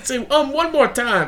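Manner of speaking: high, playful threatening dare; mock threat. Friend joins in threatening the taped performer, mock menace.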